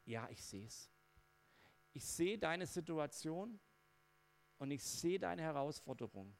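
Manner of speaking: gently calm the frightened; God reassuring. Retold or imitated. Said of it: "Und Gott sagt". (sanft und langsam beruhigend, als spräche Gott)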